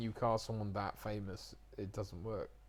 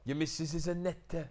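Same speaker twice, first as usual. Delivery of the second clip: higher-pitched Newport Welsh; Newport accent; 5 semitones higher than usual. Retold or imitated. Actor mimics his Newport friend, teasing Welsh accent. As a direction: tease in a put-on Newport accent. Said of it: "that Newport accent is the one".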